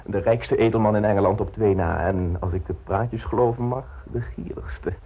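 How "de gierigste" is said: confiding whisper. Acted. Confiding gossip about the marquis.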